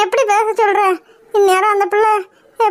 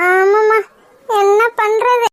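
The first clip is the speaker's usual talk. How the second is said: wailing yes; slower than usual. Acted. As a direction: break into a wail. Cries out agreeing.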